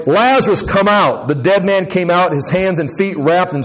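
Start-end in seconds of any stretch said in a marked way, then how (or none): 0.1-1.3 raised-voice command, mildly projected; mildly acted loud summons; calling out loudly. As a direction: call him out with a touch more force and pitch. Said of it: "called out in a loud voice".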